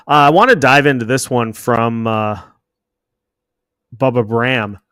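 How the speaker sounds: talking around a swollen tongue; a bit thick-tongued from a bitten tongue. Real, not acted. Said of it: "if it sounds like I'm talking funny".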